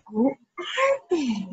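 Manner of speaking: slow, soft, tearful puppet question; shy puppet. Acted. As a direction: ask timidly like a frightened little puppet. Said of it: "Crookie will join us".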